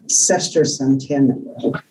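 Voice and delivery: sesquicentennial spelled out slowly, syllable by syllable; careful tricky word. Real, not acted. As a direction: work carefully through sesquicentennial. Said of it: "That's a very difficult word to say".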